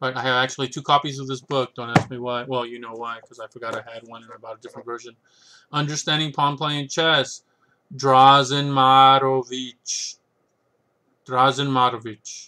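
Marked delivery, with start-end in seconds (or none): 11.3-12.5 terrible, fake, put-on Russian accent. Listing chess books, the speaker says an author's name in a terrible russian accent. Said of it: "I put on this terrible Russian accent".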